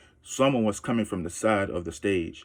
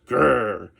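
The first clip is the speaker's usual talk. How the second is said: wolf growl; 5 dB louder than usual. Acted. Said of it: "You didn't even growl a little".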